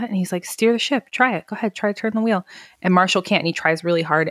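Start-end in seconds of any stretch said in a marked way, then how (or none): 0.4-2.5 higher, taunting dare to steer the ship; mock the younger man, lightly voiced; condescending captain. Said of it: "really being condescending to Marshall".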